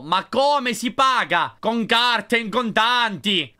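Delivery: high, loud and slow disbelief; frantic outcry. Real, not acted. Gamer baffled by how to pay, loud exasperated cry. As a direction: throw the question out in exasperation. Frantic about paying in game.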